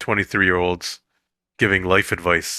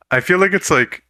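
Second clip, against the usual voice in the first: laughing; 5 semitones higher, 4 dB louder than usual. Real, not acted. Laughing while talking.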